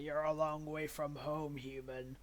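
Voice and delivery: slow, drawn-out monster taunt; manticore. Acted. Manticore looms over a human far from home, slow taunt. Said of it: "The Manticore, like, rises up".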